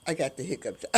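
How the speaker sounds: laughing through the words; amused chuckling words. Real, not acted. Laughing at her own hiccups.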